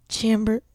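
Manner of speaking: broken-off "Chamber-" with a short a, as in "champ"; others' pronunciation. Shown as a demonstration. Host trying others' way of saying her name, "Chamber-" with short a. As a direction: attempt "Chamber-" with a flat "cham" start, then stop. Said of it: "way that people say it".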